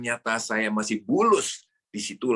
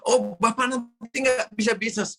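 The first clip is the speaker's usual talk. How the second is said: much higher, slow exaggerated worrying; mock critic; 12 semitones higher than usual. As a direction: drag out the fretful warning in a high mocking voice. Mocking imagined critic's warning.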